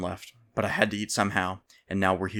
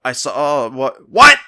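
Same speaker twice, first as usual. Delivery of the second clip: slow, louder half-shout of confusion; misheard, calling back, puzzled; stranger mishearing; 5 semitones higher, 14 dB louder, much slower than usual. A narrator's reading. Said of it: "The stranger said".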